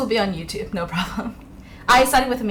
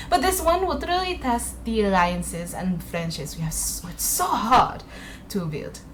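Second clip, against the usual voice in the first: Josephine. Acted. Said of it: "I always try to do the accent".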